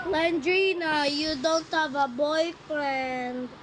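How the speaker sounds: slow taunting. Acted.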